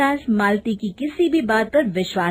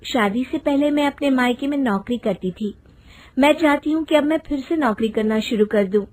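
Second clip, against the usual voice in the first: higher-pitched wife making a careful request; polite wife; 4 semitones higher than usual. Acted. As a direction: explain your wish to your husband, pitched up. Voices wife making her request. (विनम्र पत्नी की आवाज़)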